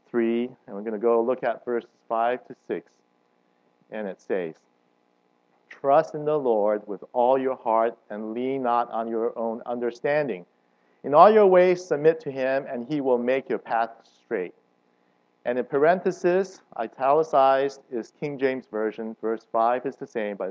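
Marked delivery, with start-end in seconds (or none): 5.7-14.5 solemn, deliberate Bible reading; scripture reading. Acted. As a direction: read the verse with weight. Reads the Bible verse.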